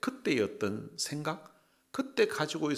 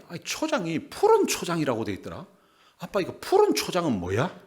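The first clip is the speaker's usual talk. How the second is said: put-on higher, questioning child to dad; imitated puzzled son; 4 semitones higher, 4 dB louder than usual. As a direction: play a puzzled kid quizzing dad. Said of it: "그래서 아빠에게 물었습니다". (궁금해서 아빠에게 따져 묻는 아이 흉내)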